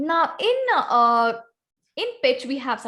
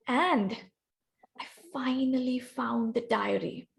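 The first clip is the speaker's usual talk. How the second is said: hushed, softer closing line; whispered last line; 6 dB quieter than usual. Shown as a demonstration. Trainer showing volunteers how to whisper the last line, hushed. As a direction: drop softly as if letting out a secret. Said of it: "whisper the last line".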